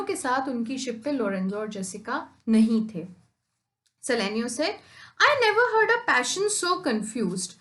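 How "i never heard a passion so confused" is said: dramatic reading. Acted. Teacher reads quote dramatically.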